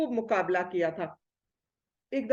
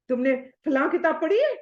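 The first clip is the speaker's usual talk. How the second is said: show-off challenge; 3 semitones higher, 3 dB louder than usual. Retold or imitated. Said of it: "ہم ایسے بولتے ہیں نا".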